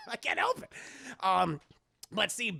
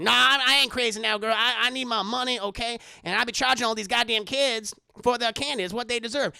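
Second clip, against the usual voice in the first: louder, a brassy mock Madea; 4 dB louder than usual. Madea answering Aunt Bam, loud and brassy. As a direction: insist you ain't crazy.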